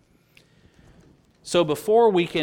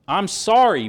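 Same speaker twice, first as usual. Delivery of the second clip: mock apology; 8 semitones higher, 10 dB louder than usual. Preacher mocks Saul's belated apology.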